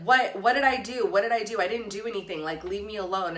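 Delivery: a touch of panic in the retelling; retold alarmed protest. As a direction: protest your innocence, mildly frantic. Protesting to cops surrounding her.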